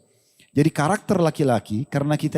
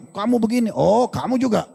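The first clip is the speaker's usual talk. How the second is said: higher, hammed-up bickering voices; mock quarrel; 6 semitones higher than usual. Husband and wife trading blame, mock quarrel. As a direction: play both sides of a petty spat, half joking.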